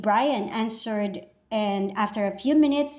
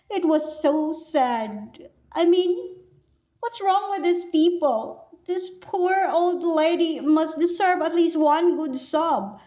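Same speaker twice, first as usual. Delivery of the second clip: higher-pitched, acted distress over a stranger; upset indignation; 5 semitones higher than usual. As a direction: plead for the poor old lady, upset. Mourner indignant at dry-eyed funeral.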